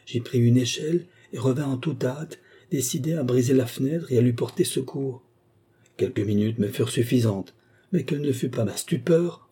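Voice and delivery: a hint of an anxious witness; shaken gardener. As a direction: recount it with a touch of agitation. Gardener recounts to the gentlemen.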